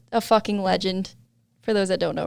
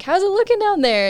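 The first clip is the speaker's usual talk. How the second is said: lightly imitated call down the slope, higher; 10 semitones higher than usual. Rider asks friend below how it looks, calling down. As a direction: retell a higher-pitched question to someone below.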